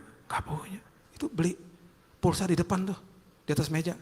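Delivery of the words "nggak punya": unvoiced hushed whisper; whispered admission of no money. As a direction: breathe the answer ashamed. Friend whispering reply.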